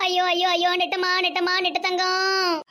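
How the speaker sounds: a grandmother's lament, mildly acted; a touch of weepy keening; wailing grandmother. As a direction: cry out for the lost granddaughter. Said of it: "ஆச்சி ஏற்கனவே அழுதுட்டு இருக்காவோ".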